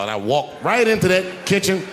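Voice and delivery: ordinary talk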